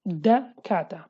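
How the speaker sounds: "dakata" with the opening D clearly sounded; standard pronunciation. Shown as a demonstration. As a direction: set off the first syllable DA in "dakata". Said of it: "change the sound D into A".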